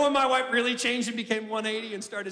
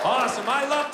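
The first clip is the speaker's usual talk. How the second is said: excited shout; 3 dB louder than usual. Real, not acted. Crowd shouts for Texans.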